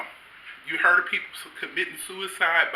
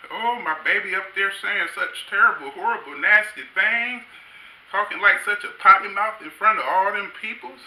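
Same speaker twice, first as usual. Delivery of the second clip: scandalized granny; 6 semitones higher than usual. Retold or imitated. Grandmother voiced scandalized.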